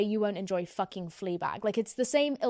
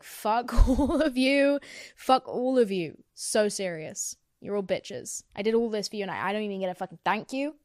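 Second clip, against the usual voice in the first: spiteful rant. Pretend. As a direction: sneer it at everyone who never thanked you. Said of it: "And I'd be like".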